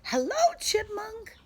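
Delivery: very high, loud greeting; calling out. A narrator's reading. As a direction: sing out a bright hello. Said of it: "calls out Skunk".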